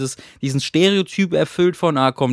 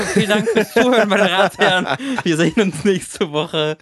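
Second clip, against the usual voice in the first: laughing farewell; 6 semitones higher than usual. Pretend. Mock grand podcast sign-off.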